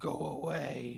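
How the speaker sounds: very deep, low, rough, creaking, raspy growl. Game master voices the figure on the throne as a player approaches: very deep, raspy voice. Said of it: "in a very deep, raspy voice".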